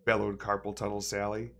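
lightly hammed-up read-aloud; reading a nonsense story to viewers, mildly theatrical; storybook reading. Gamer reading a found book aloud, mild storyteller voice.

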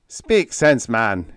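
loud, testy order; pettish. A narrator's reading. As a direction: snap impatiently, dropping off on the last word. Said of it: "he ordered pettishly".

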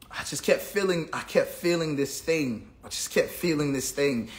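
soft, inward, low-key telling; hushed recollection. Retold or imitated. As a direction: speak it low as if the feeling still tugs at you. Recalling a nagging inner feeling.

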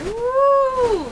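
high, loud whoop; joyful woo; cheer. Real, not acted. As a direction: let out a real excited whoop. Cheering at the result.

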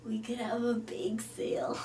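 hushed, soft suggestion; a mellow hippie whispering; dreamy whisper. Acted. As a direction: float the idea in a whisper. Hippie suggests a bake sale.

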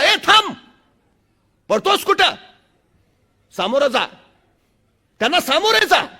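a sadhu barking at Vivekananda to turn and face the monkeys; thundering sadhu. Retold or imitated. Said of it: "एक साधू कडाडला".

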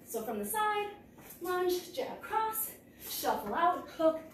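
calling strikes while punching; punching through the combo; hitting a punching bag. Real, not acted. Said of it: "keep going".

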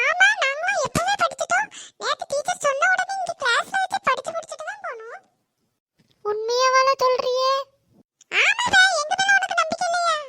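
put-on boastful classmate fibbing to the girls; bragging schoolboy. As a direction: show off as the boy who claims he studied. Boys brag they studied.

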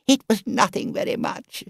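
high, breathless embarrassed whisper; sheepish whisper. Acted. Toad confessing to the driver, sheepishly whispered. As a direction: shrink away from admitting it.

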